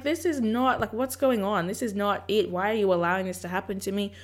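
mildly exasperated pleading, rising in pitch; protesting questions, lightly acted; complaining to God. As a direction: retell an argument with God, pitch climbing. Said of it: "fighting with God".

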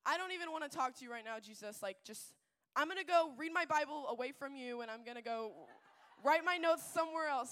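snapping at God in a huff; upset outburst. Retold or imitated. Youth speaker retelling her upset rant at Jesus, heated. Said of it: "I was so upset and so angry".

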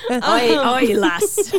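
hammed-up Scot calling out; Scottish accent. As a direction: playfully attempt a Scottish accent. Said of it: "That's all I could do, Scott".

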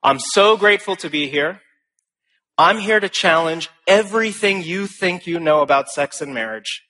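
mildly animated speech opening; lightly reenacted opening challenge to hostile audience; confident challenge. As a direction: throw down the gauntlet with energy. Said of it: "I begin like this".

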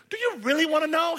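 put-on girl's coy question; playful girl voice. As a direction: tempt him with a secret. Girl answers the boy.

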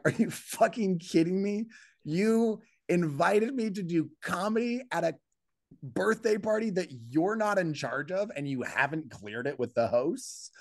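high, incredulous outburst at the organizer; exasperated disbelief. Retold or imitated. Comedian ranting at Chris over the unapproved gig, incredulous. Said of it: "And I'm like".

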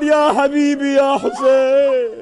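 slow, drawn-out shout of grief; screaming out. Acted. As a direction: wail it out slowly and loud. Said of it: "She begins to scream out".

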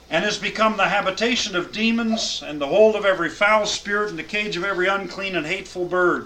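solemn scripture reading to a class. Acted. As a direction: read the verses out with weight. Reads scripture aloud.

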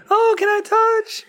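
very high, hammed-up cooing; mock gushing fan. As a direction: squeal it like an overexcited fan. Imagined fan cooing over pregnant belly.

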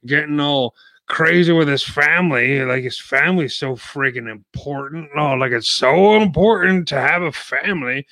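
mocking sarcasm about family; sarcastic. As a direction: sneer at how important it is. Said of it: "That's sarcasm if you didn't know".

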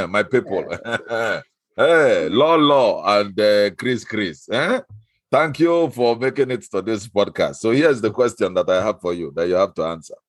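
hammed-up Igbo accent for a game segment. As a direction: play the host in a broad Igbo accent. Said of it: "I pick the Igbo accent".

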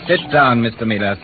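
a loud, hard order; stern command. Acted. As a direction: put him back in his seat with one sharp command. Kidnapper orders his captive.

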